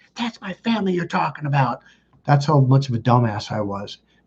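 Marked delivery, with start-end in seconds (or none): 0.1-1.8 play-acted, mad, angry tone. Retelling a reply to a friend who criticized the family: imitating own angry reply. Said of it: "I got mad at him".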